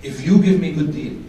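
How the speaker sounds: put-on low Arab accent sales pitch; arabic accent. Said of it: "the same line".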